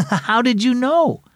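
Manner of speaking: high, giggly amazed question; laugh, then ask in a high voice; amused surprise with a chuckle. A narrator's reading. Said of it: "Sylvie laughed".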